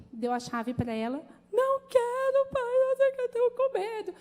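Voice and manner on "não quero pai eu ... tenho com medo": high, loud, teary pleading to her father; imitating a panicked daughter begging; tearful daughter. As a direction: cry out the refusal like a frightened girl. Scared daughter voiced, crying.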